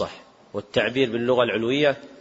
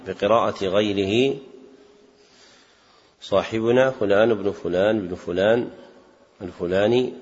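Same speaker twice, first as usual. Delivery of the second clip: dictation. Real, not acted. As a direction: dictate it phrase by phrase so students can write. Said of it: "اكتبوا طبقة السماع".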